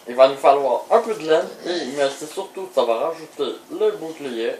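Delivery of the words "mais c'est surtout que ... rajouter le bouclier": ordinary delivery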